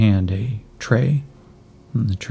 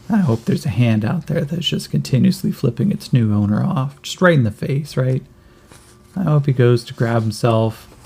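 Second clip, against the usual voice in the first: put-on kid voice; 3 semitones higher than usual. GM voices kid joking about cybernetics.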